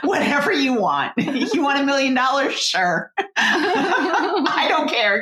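high, laughing surrender; played-up giddy desperation; mock-desperate bargaining. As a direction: agree to anything, laughing as you plead. Retells agreeing to anything, laughing.

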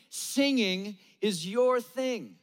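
is YOUR thing, slow with a falling end; stress on your. Acted. Preacher to the congregation, slow stress on YOUR. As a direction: lean on YOUR and let it drop. Repeated refrain.

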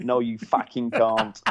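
slow Cockney refusal, lightly imitated; slow mock-Cockney put-down; Cockney accent. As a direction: refuse slowly like a Cockney boss. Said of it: "he's a proper, like, Cockney accent".

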